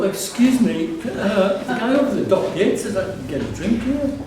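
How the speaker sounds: polite visitor. Retold or imitated. He voices his own polite request.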